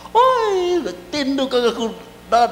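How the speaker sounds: a hint of the father's shout, up high. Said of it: "So he shouted at me".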